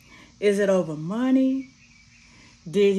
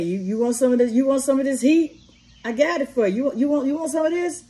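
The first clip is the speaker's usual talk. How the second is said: higher, taunting challenge, "want some of this heat"; mock gangster judge; 5 semitones higher, faster than usual. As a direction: play the judge as a street tough picking a fight. Voicing the judge threatening with gun.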